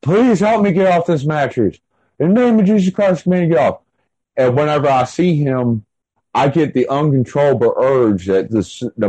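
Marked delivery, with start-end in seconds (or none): 0.0-3.8 pleading while crying. Retold or imitated. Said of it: "I'm bawling my eyes out".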